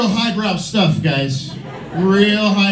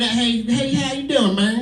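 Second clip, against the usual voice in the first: higher mock Southern greeting; Southern accent; 4 semitones higher than usual. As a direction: call out hello with a Southern twang. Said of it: "when I hear that Southern".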